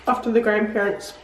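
chewing while talking; speaking through a mouthful; mouth full. Real, not acted. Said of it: "I shouldn't be eating with my mouth full".

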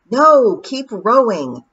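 urgent command. Acted. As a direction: stop the pixies from fighting. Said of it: "said Tiffany".

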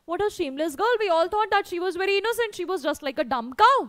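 fast, sneering gossip. Acted. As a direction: spit it out scornfully. Village woman sneering.

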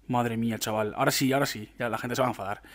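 ordinary talk

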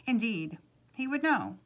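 animated read-aloud storytelling; storyteller's lilting delivery; story narration. A narrator's reading. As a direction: read a picture book aloud with measured pauses.

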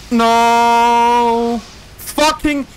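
loud, high frustrated yell; angry shout. Real, not acted. Killed by a pyro.

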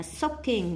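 slow "soaking" stressed on "soak"; first-syllable stress. Shown as a demonstration. Teacher marking word stress, "soaking" stressed on the first syllable. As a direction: put the weight on SOAK in "soaking". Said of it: "nhấn âm một".

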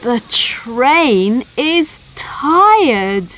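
slow, breathy whispered telling; sleepy whisper. A narrator's reading. Narrator telling the children the train is tired, slow whisper. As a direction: whisper it slowly like the train is nodding off.

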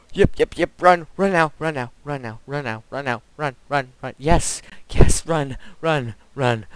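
terrified horror victim. Real, not acted. Fleeing the monster in panic.

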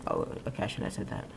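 hushed embarrassed whisper. Real, not acted. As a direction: whisper it under your breath. Regrets saying something.

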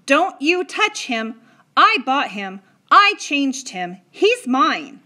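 loud, slow, high and defiant; guard what's yours fiercely; boy refusing to give up the cowboy; possessive defiance. A narrator's reading. Patrick defends his toy.

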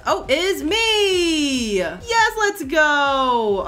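high, slow gleeful cry; gleeful, drawn-out yes; excited squeal. Real, not acted. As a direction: stretch out the delight. Delighted at avoiding the bus.

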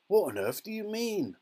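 high, sharp demand; sharp question. A narrator's reading. Alarmed father demands an explanation from Wonka, sharp and high. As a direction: ask it sharply, pitched right up. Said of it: "asked Mister T V sharply".

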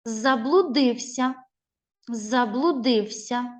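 Заблудився read slowly, syllable by syllable; slow model reading. Shown as a demonstration. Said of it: "Прочитай правильно".

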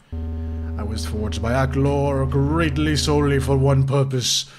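slow, deep, menacing voice; grave, drawn-out servant of evil; ominous game villain. Acted. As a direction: pronounce doom slowly and portentously.

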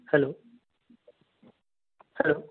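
usual speaking voice

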